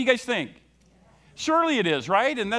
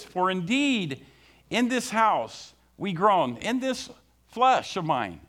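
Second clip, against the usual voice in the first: slow emphatic reading; slower than usual. Shown as a demonstration. Preacher reading the verse slowly to the congregation. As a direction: read each word slowly and deliberately. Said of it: "I want you to listen to it again".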